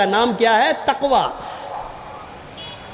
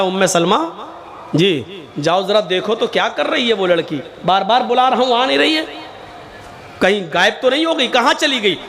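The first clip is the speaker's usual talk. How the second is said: hushed, gentle words to his wife; soft gentle asking; 4 semitones lower, 7 dB quieter, faster than usual. Retold or imitated. Prophet softly asks his wife to check on the girl, hushed. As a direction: ask her quietly, no hurry.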